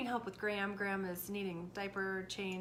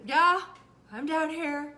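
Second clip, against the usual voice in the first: much louder, higher shout back up; son calling back; 6 semitones higher, 11 dB louder, slower than usual. Retold or imitated. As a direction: shout up from the basement. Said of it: "And he".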